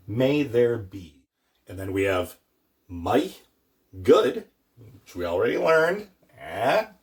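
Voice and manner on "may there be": may there be, slow and deliberate; slow gloss. Shown as a demonstration. Teacher glossing the Irish phrase slowly. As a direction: spell out the meaning slowly. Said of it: "We have goraibh".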